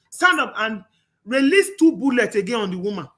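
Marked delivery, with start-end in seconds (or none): 0.1-0.5 higher, louder mock command; retold yell to get up, pushed higher and louder; imitated shout. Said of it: "was like".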